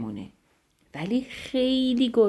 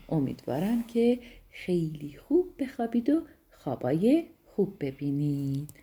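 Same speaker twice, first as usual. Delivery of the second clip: soft, lowered goodnight voice; tender bedtime sign-off; 3 semitones lower, 4 dB quieter than usual. Real, not acted. Storyteller wishing dear children sweet dreams, soft and tender.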